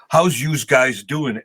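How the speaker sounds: slow, lightly voiced New Jersey thug accent; mock New Jersey accent. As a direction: drawl it like a Jersey tough guy, lightly. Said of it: "spoke with ... accent".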